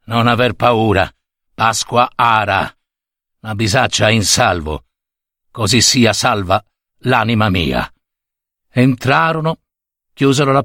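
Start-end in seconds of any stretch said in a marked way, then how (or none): 0.0-7.9 put-on low, settled old man's voice; reassuring old servant. Servant tells mistress the saddlebag is safe, reassuring. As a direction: lightly voice an old man calming her.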